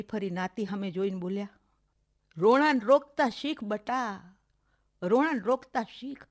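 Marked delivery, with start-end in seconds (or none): 2.4-6.2 slow, grave advice. Acted. Aunt slowly advises crying niece.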